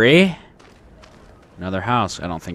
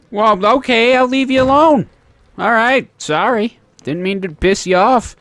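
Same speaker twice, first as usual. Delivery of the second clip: high-pitched, louder backing-off; high, startled "leave you alone" voice; startled apology; 12 semitones higher, 5 dB louder than usual. Real, not acted. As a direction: back off hastily in a raised, high voice. Backs away from something angered in game.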